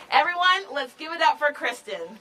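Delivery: rally the crowd for her; hype introduction. Real, not acted. Introducing speaker, crowd cheer.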